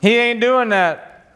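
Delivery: slow, drawn-out Texan twang; "He ain't doing that" slow, with a Texan drawl. Shown as a demonstration. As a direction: let the Texan come out, slow. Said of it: "See, that's my Texan, sorry".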